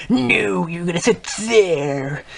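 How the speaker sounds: sharp high "No", then a slow, firm command; bossy order. Retold or imitated. ISS lady telling the boy where to sit, bossily. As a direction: overrule him and point to the seat.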